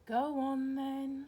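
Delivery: a slow, weary sighed give-in; tired mum sighing as she gives in to her son. A narrator's reading. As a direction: let it out on a long sigh, worn down. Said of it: "sighed Missus Large".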